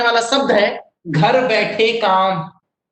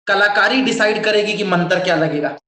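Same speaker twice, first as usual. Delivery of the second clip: ordinary talk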